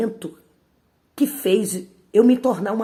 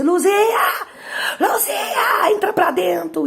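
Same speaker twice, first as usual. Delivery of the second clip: much higher, shouting with a sob in the voice; furious mother's yell; 11 semitones higher, 4 dB louder, slower than usual. Retold or imitated. Angry mother yelling for her daughter to come inside. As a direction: scream the name, then order her in.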